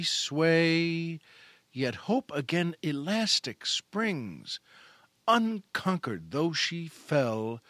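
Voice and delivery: slow, measured poetry reading; a host reads Charlotte Bronte's poem to listeners; poem recitation. Acted. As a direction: savor each line like a fond recital.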